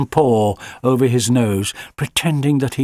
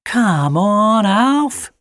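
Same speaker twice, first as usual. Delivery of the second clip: high, coaxing call to the dog; 10 semitones higher, 4 dB louder, much slower than usual. A narrator's reading. Charlie coaxes Alfie into the van, high and coaxing. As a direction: coax the dog in, higher and lightly voiced. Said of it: "coaxed Charlie".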